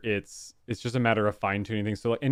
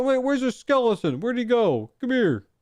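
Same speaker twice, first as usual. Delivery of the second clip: excited calling; 11 semitones higher, 3 dB louder than usual. Real, not acted. Chasing skeleton in game.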